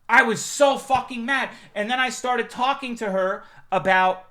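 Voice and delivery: loud, high furious yelling; furious rant. Real, not acted. Streamer raging that he missed the praise, loud and high. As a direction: rage about missing the praise.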